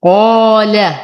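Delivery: قال with full, heavy "qaw-aa" and light ل; thick ق held long, then a thin ل in قال; heaviest qāf. Shown as a demonstration. Teacher showing top-degree tafkhim, heavy ق and light ل in قال. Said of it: "أفخم القاف أعلى درجات التفخيم".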